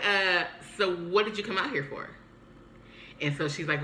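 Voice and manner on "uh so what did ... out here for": raised, mildly sassy challenge; retold miffed question; instant attitude. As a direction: ask it with a bit of attitude. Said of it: "instant attitude".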